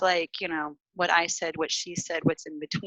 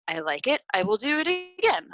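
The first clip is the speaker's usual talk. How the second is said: lightly acted approval, rising high on "again"; programmed approval; 4 semitones higher than usual. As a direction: voice an automatic yes, pitching up at the end. Acting out a pre-programmed positive response.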